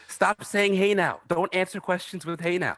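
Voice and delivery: high, exasperated scolding. Retold or imitated. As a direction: scold him playfully. Scolding about catchphrase.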